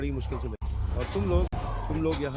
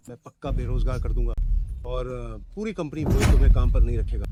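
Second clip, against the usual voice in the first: loud, firm threat; angry threat; 2 semitones lower, 8 dB louder than usual. Acted. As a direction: slam down the threat. Chairman threatens the family. (गुस्से में ऊँची धमकी)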